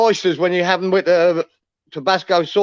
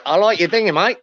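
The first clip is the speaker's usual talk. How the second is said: lightly put-on English accent. Asked by the others to say the dinghy line, English accent. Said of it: "in his English come off the accent".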